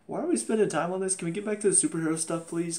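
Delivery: hurried, exasperated begging; impatient plea. Acted. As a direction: rattle it off as a fed-up viewer. Acts out own impatient reaction.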